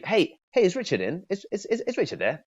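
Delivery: high, breezy friendly hello; casual friendly opener. Shown as a demonstration. Coach demos opening a cold call casually. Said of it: "when you open, you could be".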